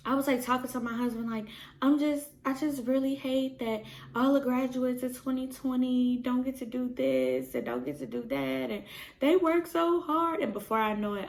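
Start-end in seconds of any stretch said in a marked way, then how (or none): 1.8-10.4 retold teary rant. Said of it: "I'm, like, in tears".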